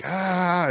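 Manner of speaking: retold pain cry. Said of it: "I'm screaming out".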